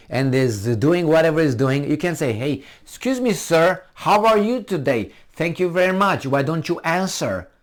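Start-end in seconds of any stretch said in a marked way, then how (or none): 2.3-7.5 high-pitched, over-courteous greeting; mock polite. Asking a pig nicely to answer, mock politeness. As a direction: address it politely like a gentleman. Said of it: "no, you don't talk like that with the pig".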